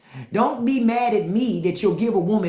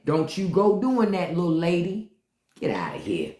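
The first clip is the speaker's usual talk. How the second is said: weak man mocking; 2 semitones lower than usual. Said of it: "A weak man".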